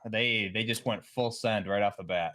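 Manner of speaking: muffled mic sound. Real, not acted. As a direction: voice muffled as if through a wall. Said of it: "Buff, you sound muffled".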